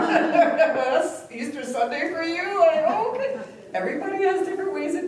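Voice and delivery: high, loud words squeezed out through laughter; laughing hard. Real, not acted. Laughing at her friend choosing a prison movie on Easter, loud high laughing.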